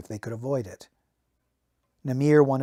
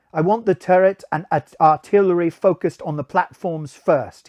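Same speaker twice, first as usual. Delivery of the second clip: Namir's voice, higher and louder, giving orders; 4 semitones higher, 6 dB louder than usual. Acted. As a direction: bark the command into the link as the sergeant. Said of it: "let me give him a voice".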